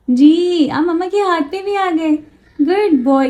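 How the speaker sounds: high, sing-song praise for the bird; coaxing baby talk. Acted. Mother praising Cherry stepping onto her hand, high sing-song coaxing. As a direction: lure him onto your hand sweetly.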